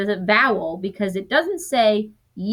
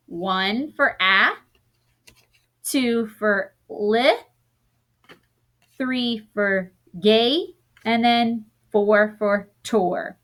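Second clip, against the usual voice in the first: slow, deliberate counting of each syllable; slower than usual. Shown as a demonstration. Teacher counting syllables for the class, slowly. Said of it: "So that was four".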